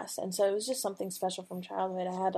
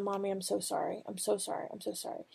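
tearful apology; 8 dB quieter than usual. Retold or imitated. Weeping daughter apologizing to mother.

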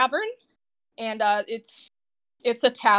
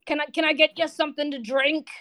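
Bourne the barkeep; 2 semitones higher, 4 dB louder than usual. Acted. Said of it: "Bourne goes".

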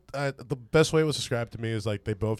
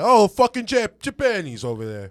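mock Italian accent; 9 semitones higher, 7 dB louder, slower than usual. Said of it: "It sounds like you're in Italian".

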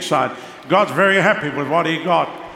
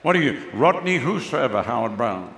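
teasing mock question; 5 semitones lower than usual. Mock name joke, voice drops.

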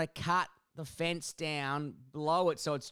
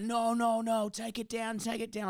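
put-on old lady voice; 6 semitones higher than usual. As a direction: mimic the stubborn neighbour. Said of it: "She's like".

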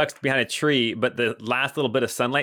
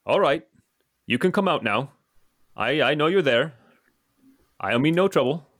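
higher-pitched, measured call to a stranger; 4 semitones higher than usual. Acted. Lantern-carrying traveler to someone hiding in the woods, calling out. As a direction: call out, pausing between phrases. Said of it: "he calls out".

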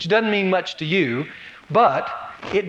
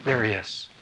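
of course, obviously; much slower than usual. Pretend. Reader answering Paul's question, obvious swoop. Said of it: "the reader would go".

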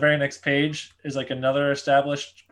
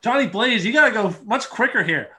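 high mock urging voice; 8 semitones higher than usual. Joking voice of a boss.

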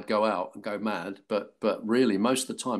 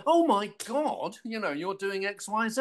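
mock gushing; 9 semitones higher than usual. Makeup girls revealing the coming scripts, mock gushing. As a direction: gush it in a raised voice, stretching the exclamation.

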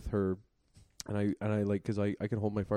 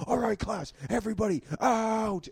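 high, raised-voice mock announcement; teacher calling out; 12 semitones higher, 5 dB louder than usual. Teacher dismissing the class early, calling out. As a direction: play a teacher ordering everyone out.

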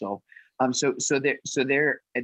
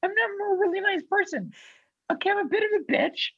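mock protest. Real, not acted. Jokingly protesting own niceness.

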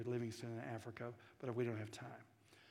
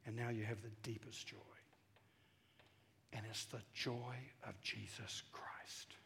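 reverent whisper; 4 semitones lower, 10 dB quieter than usual. Real, not acted. Preacher telling the congregation of Christ's joy in a hushed whisper. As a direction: drop to a whisper for the holiest part.

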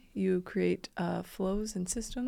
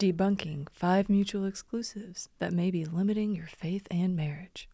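seductive voice; 2 semitones lower than usual. Acted. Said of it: "kinda creepy, seductive voice".

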